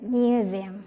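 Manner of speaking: museum as myoo-ZEE-um. Shown as a demonstration. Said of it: "Z, pakai Z".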